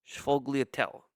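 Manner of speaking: "Sfogliatelle" starting with sh, final e dropped; Italian American pronunciation. Shown as a demonstration. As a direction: say "Sfogliatelle" as shfo-glia-TELL. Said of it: "I'm saying it the Italian American way".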